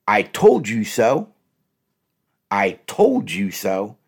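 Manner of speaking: slow, drawn-out condescending I-told-you-so. Shown as a demonstration. Coach demos what not to say to a partner, slow and condescending. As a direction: say it slowly, talking down to them. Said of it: "That comes across as condescending".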